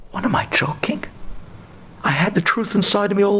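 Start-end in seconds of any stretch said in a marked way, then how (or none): 0.1-1.0 almost whispered incredulous question; hushed disbelief. Retold or imitated. Monk doubting himself after hearing Shema, hushed and incredulous. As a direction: drop to a breath of disbelief. Retold self-questioning in the monastery.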